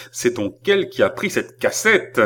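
angry. Acted. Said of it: "frappant du pied avec colère".

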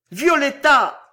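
high, loud anguished call of her name; terrible cry. A narrator's reading. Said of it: "hurla-t-il dans un cri terrible".

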